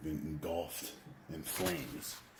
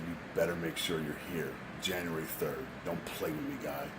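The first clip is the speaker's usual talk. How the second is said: judge's threat growing louder; hammed-up judge getting louder; mock stern judge; 6 dB louder than usual. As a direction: threaten him, building to a loud warning. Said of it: "And he said".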